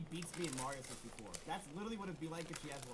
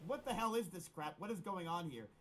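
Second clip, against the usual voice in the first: retold outrage. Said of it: "and I'm like".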